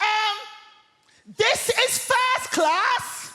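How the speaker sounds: put-on very high, shrill, drawn-out full-voice yell. Retelling a woman in the first class carriage shouting at them: retelling her loud shout. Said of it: "at the top of her voice, she shouts".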